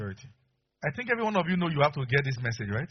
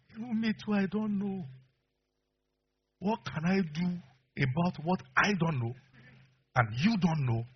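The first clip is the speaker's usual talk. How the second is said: wife; 5 semitones higher, slower than usual. Retold or imitated. Wife's answer voiced.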